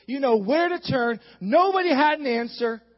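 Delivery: emphatic, punched preaching cadence. Acted. Preacher excited about God's word, preaching. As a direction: drive each phrase home to the congregation.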